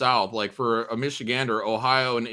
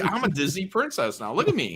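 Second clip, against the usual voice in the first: mock Disney princess; 4 semitones higher, 3 dB quieter than usual. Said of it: "You're like".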